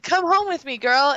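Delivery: high-pitched mock coaxing; coaxing a pet. Retold Arya coaxing her wolf.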